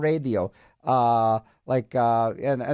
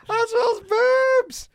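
squealed, slow and high; high comic shout; 3 dB louder, much slower than usual. Pretend. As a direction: shriek it out in a goofy voice. Reading calculator joke aloud, shout.

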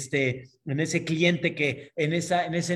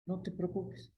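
much softer, hushed reassurance; soothing reassurance; 3 semitones higher, 11 dB quieter than usual. Acted. Angel calming man worried for his wife, soft soothing voice. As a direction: drop the volume right down to calm him.

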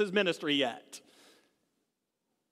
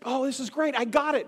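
ecstatic; 4 semitones higher than usual. Retold or imitated. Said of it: "She's ecstatic".

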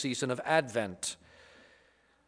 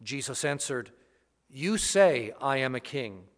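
Gospel reading. Acted. Gospel proclamation at Mass.

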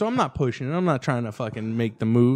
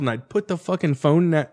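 normal talking voice

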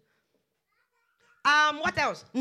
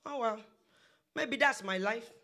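quieter, acted resignation; resigned self-talk; 5 dB quieter than usual. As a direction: sigh and give in, as if to yourself. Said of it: "And you begin to say".

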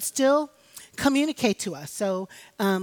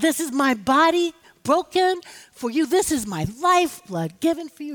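preaching at full force; 6 semitones higher, 3 dB louder than usual. Acted. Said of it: "preacher recalling communion words".

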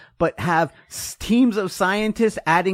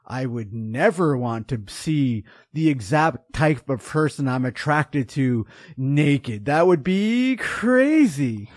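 mock innocent denial; 4 semitones lower, slower than usual. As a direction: act shocked by the very idea. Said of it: "So when someone's like".

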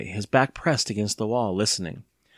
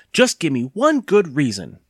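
put-on demanding boy; 5 semitones higher, 5 dB louder than usual. A narrator's reading. Boy keeps demanding a reason.

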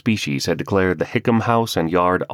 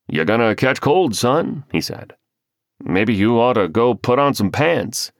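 teasing neighbor; 5 semitones higher than usual. Acted. Neighbor teasing half-dressed man.

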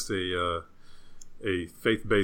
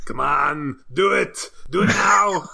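high, loud goading that builds; mock urging shout; 8 semitones higher, 6 dB louder, slower than usual. Co-host pushing his friend to do the impression, mock urging shout. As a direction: egg them on, louder each time.

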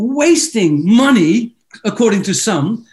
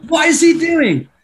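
higher, rising mock outrage; acted disbelief; 5 semitones higher than usual. Onlooker thinking the worship leader is mad, acted disbelief. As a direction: build into baffled, incredulous protest. Acting out his shocked inner reaction.

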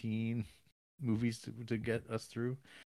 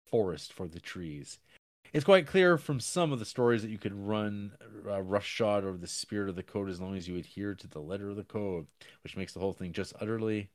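reading a review. Acted. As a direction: read the review aloud with gusto. Reads out a review.

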